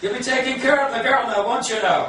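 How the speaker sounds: high, hammed-up Irish uncle voice; Irish accent. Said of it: "I'm gonna do it in the Irish accent".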